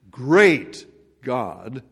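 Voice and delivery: great said heavily; stress on great. Shown as a demonstration. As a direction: press on the word great. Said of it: "I emphasize that word great".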